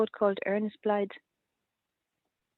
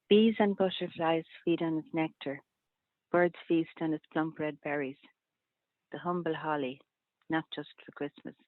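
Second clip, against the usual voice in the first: poem reading. Acted. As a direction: read each line evenly, then pause and let it settle. Reads three-line poem.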